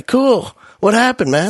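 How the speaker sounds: high, carefree student imitation; clueless kid. Student with no idea why teacher is mad, breezily clueless. Acts out kid's clueless reply.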